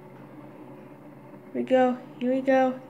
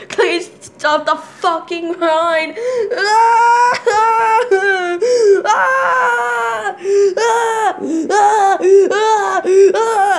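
laugh-crying; much slower than usual. Real, not acted. Laugh-crying near the ride's end.

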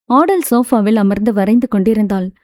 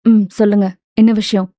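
calm; 2 semitones lower than usual. Acted. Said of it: "நிதானமாய் கேட்டாள்".

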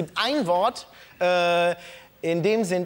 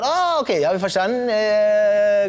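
lightly acted contestant's sudden realisation; gedachter Aha-Moment; 4 dB louder than usual. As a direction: act out someone who thinks they've finally got it. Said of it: "Und jetzt denkt sich irgendwann". (gespieltes Aha-Erlebnis)

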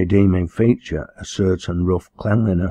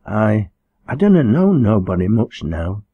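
stammering; 3 semitones higher, 4 dB louder than usual. Acted. Frightened girl answering the minister, stammering. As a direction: trip nervously over "I", in dialect. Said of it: "she stammered".

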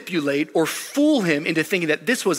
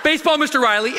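laughing code word shout; 10 semitones higher than usual. Retold or imitated. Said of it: "we'd be like".

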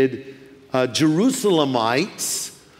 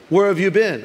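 questioning mother; 2 semitones higher, 3 dB louder than usual. Acted. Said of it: "Do you have a mother?".

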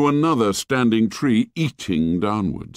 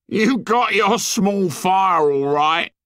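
high, slow sour sarcasm; drawn-out bitter mockery; sour sarcastic joke; 12 semitones higher, 3 dB louder, slower than usual. A narrator's reading. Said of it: "the sour joke".

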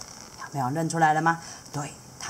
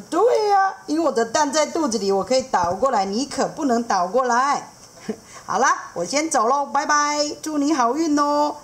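much higher, fast and chatty; eager seahorse dad; 9 semitones higher than usual. Acted. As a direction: rattle it off, knowing and playful. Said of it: "海马爸爸说".

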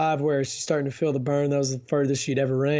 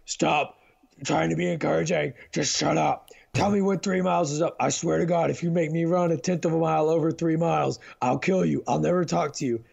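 mild mock yell of an exasperated wife; retold angry rant, only lightly raised; imitating a fed-up runner's threats. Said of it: "she's sitting there yelling at me like".

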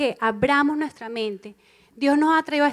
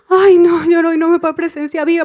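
loud, high panicked cry; mock panic; 4 semitones higher, 12 dB louder than usual. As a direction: cry out in sudden alarm. Acting panicked believer. (grito alarmado fingido)

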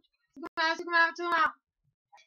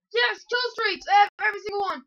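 excited cheer; 2 semitones higher, 4 dB louder than usual. Real, not acted. Celebrating kill streaks.

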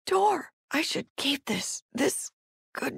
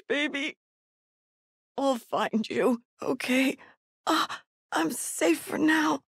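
acted distress, pained and searching; halting, anguished survivor monologue; desperate wounded parent. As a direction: play a hurt parent hunting for a lost child.

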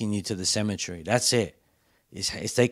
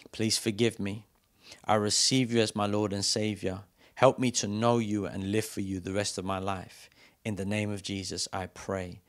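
guided prayer. Acted. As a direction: lead the room line by line. Leads sinner's prayer.

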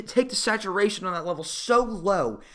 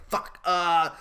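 mock director; 4 dB louder than usual. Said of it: "And he's like".

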